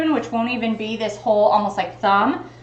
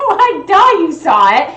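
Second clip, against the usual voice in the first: laughing duh; 5 semitones higher, 5 dB louder than usual. Real, not acted. Laughing mock scolding of dogs.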